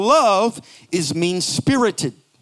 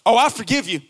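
sincere forgiveness; faster than usual. Shown as a demonstration. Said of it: "It's the difference between".

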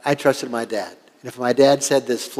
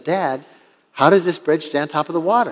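put-on mildly worried kid's question, pitched higher; retold childhood worry, lightly acted; a little worried; 4 semitones higher than usual. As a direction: ask Dad with a touch of worry, voice lifted. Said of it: "I was getting a little worried".

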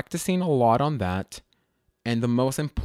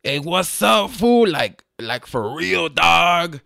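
loud, higher-pitched derpy cholo voice; hammed-up derpy homeboy, punched loud; derpy cholo stereotype; 6 semitones higher, 6 dB louder, slower than usual. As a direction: put on an exaggerated goofy cholo. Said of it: "you get that cholo, like, kinda derpy voice".

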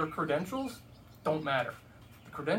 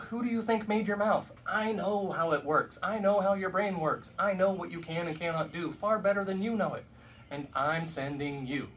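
frustrated God; 3 semitones higher, 3 dB louder than usual. Retold or imitated. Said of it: "God seems to be getting frustrated".

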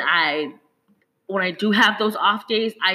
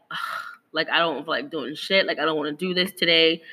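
low, soft, sulky groan; unmotivated whine; 4 semitones lower, 3 dB quieter than usual. Retold or imitated. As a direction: drag it out like you can't be bothered. Voicing her lazy past self.

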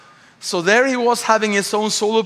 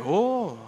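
soft rising-falling "ooh"; hushed, drawn-out ooh; crowd's "ooh"; 6 dB quieter than usual. Retold or imitated. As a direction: imitate onlookers reacting to a comeback. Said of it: "And the whole plane went".

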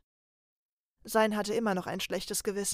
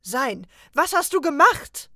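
louder, higher indignant yell; outraged shout; 5 semitones higher, 10 dB louder than usual. Acted. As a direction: demand an answer, shocked and angry. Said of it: "schrie er empört".

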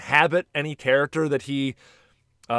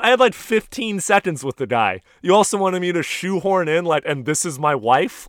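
exasperated protest to wife; 6 semitones higher, 4 dB louder than usual. Retold or imitated. Retold argument with his wife.

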